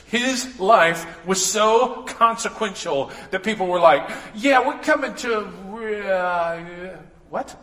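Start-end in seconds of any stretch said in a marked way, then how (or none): 4.4-7.6 dumbfounded officers. Retold or imitated. Officers sent to arrest Jesus, suddenly stunned. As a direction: go blank mid-sentence, like a cop stopped in his tracks.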